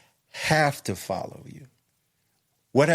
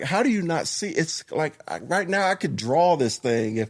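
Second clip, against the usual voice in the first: higher-pitched, exasperated disbelief; retold frustration; 4 semitones higher than usual. Explaining to wife who doesn't see it, retold frustration. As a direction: replay being baffled that she can't see it. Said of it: "upset or frustrated".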